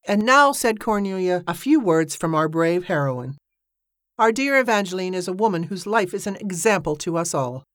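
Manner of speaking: society lady introducing the star to the crowd; grand announcer. Acted. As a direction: present the heroine to the crowd with a flourish. Cornelia presents the heroine.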